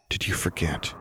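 soft, gentle question. A narrator's reading. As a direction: ask it gently, barely above a breath. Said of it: "he asked again, softly, gently".

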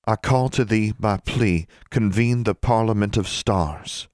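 formal chant to the stars, slowing at the end; solemn incantation. Acted. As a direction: recite it as a measured verse spell. Recites a rhymed incantation.

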